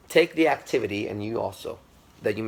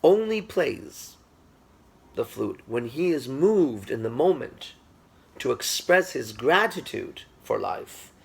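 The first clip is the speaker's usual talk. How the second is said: slow, higher, louder, savouring each phrase; reverent emphasis; 4 semitones higher, 3 dB louder, slower than usual. Retold or imitated. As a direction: speak of the master with awe. Student explains master's sacred playing.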